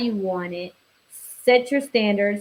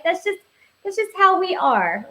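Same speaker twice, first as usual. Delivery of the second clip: high playful voice; 9 semitones higher than usual. Real, not acted. Playful admission.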